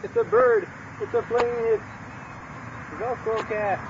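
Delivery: high, excited mock announcer; Superman announcer. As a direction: ham up the Superman intro.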